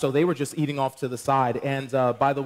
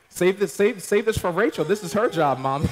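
teasing protest; 4 semitones higher than usual. Retold or imitated. Son to mom at the altar, teasing plea. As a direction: tease mom, half laughing. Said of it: "You know".

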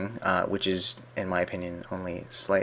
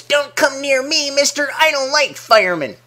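put-on snotty kid; 7 dB louder than usual. One stubborn orphan refusing the fireman, bratty high kid voice. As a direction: whine it like a spoiled little brat. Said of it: "best impression of a snotty kid".

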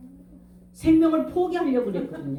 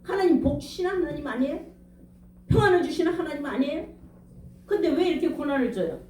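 raised, aggrieved questioning of God, half-acted; retold reproach; 3 semitones higher than usual. Preacher replaying his bitter questions to God, mild mock reproach. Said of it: "그 하나님이 계시다면".

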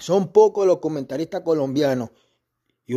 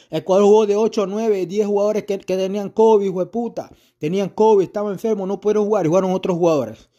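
angry pitch-raised rant; heated rant; 5 semitones higher than usual. Real, not acted. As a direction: yell out the excuses Ecuador never made. Ranting about covid-hit squad.

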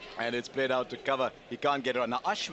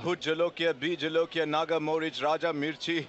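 laughing while reading; 6 semitones higher, 4 dB louder than usual. Real, not acted. Reads chili facts while laughing.

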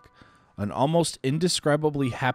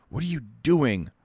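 mild shout; 4 semitones higher than usual. Acted. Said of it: "the doctor shouts at him".

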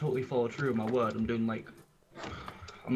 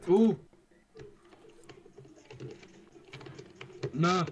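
alarmed shout; 6 semitones higher than usual. Real, not acted. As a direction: yell it as you get hit. Dying in game.

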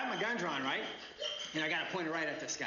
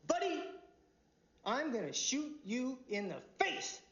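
sharp shout; 6 semitones higher, slower than usual. Acted. Cop warning driver.

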